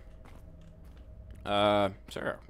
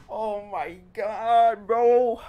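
laughing; 10 dB louder, much slower than usual. Real, not acted. Laughing relief.

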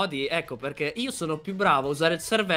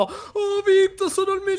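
mocking gloat. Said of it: "lo fai apposta perché dopo".

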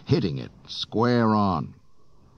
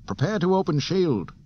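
higher, louder call; order called out; 12 semitones higher, 4 dB louder than usual. A narrator's reading. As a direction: call the order across the room. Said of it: "a radar man ordered".

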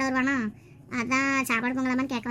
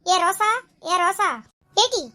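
raised, higher call to rouse a sleeper; 5 semitones higher, 5 dB louder, slower than usual. Acted. Trying to wake Rosa who sleeps on, calling out. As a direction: call the name loudly to wake her.

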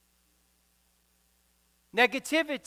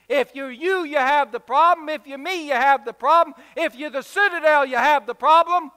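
raised, driving refrain; insistent preaching; 3 semitones higher, 6 dB louder than usual. Real, not acted. Preacher telling everyone they share the problem, insistent. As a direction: pound out each repeated phrase, pitched up. Sermon refrain builds to a peak.

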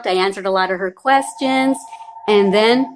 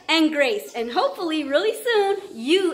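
ordinary delivery

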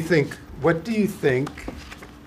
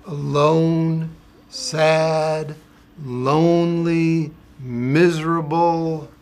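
slow, drawn-out sad words; storyteller's hammed-up gloom; mock sorrow; 3 semitones higher, 5 dB louder, much slower than usual. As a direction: linger on each sad word. Reading sad page to children.

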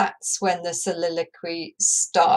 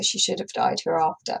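softly read, hereafter stressed; quiet read-through; 4 dB quieter than usual. Shown as a demonstration. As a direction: whisper the line through to hereafter. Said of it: "whether you stress the ter on hereafter".

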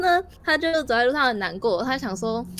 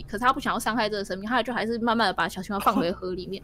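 ordinary talk, nothing marked

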